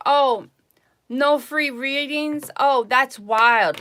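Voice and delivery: high, slow mock whine; imitating a viewer who wanted free readings; mocking a customer. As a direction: parody the stingy customer's outrage.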